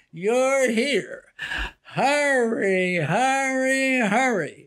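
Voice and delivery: drawn-out showman pitch, slowing down; hint of a carnival barker hawking. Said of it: "there was this carnival barker voice".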